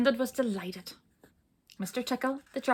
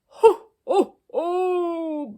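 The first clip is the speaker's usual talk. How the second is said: very loud, high ho ho ho; booming laughter; 9 semitones higher, 11 dB louder, much slower than usual. Acted. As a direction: boom out helpless laughter. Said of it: "boomed the dragon".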